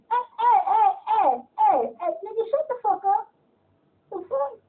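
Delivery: half-laughing outraged shut-down; retold telling-off. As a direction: cut them off with repeated heys. Acts out snapping back at complainers.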